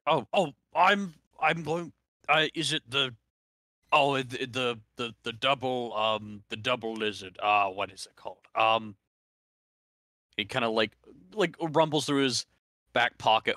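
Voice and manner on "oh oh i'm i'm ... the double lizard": put-on high, stammering old man; old man mumbling. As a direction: fumble the words like a confused old man. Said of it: "the old man grumble babble".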